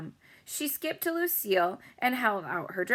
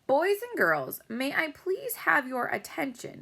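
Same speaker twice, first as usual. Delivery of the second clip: lightly voiced dad calling for attention, higher; announcing; 8 semitones higher than usual. A narrator's reading. Dad calling the party guests to attention, hosting. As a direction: address the crowd like a host.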